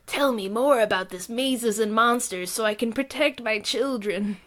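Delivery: concerned mom with a nerdy voice. Acted. Concerned mom on her couch asking about the movie, nerdy voice. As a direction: put on a nerdy worried-mother voice. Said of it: "I gave her a nerdy voice".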